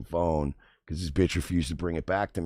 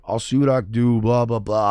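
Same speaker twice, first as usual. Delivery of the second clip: louder, offhand brush-off voice; dismissive imitation; 3 semitones higher, 7 dB louder than usual. Mimicking the driver fobbing him off, dismissive. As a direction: toss it away like you couldn't care less.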